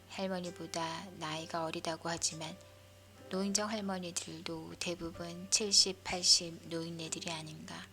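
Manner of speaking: usual speaking voice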